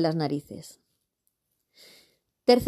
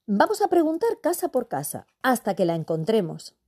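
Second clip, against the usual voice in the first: eager; 4 semitones higher than usual. Acted. Mother proposes searching door to door.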